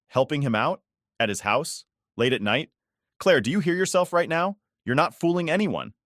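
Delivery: rising disbelief, pitch climbing high; incredulous. A narrator's reading. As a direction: pick apart her excuse, disbelieving.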